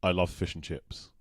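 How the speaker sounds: slow British model phrase; British accent. Shown as a demonstration. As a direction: say it slowly in everyday British English. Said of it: "another phrase".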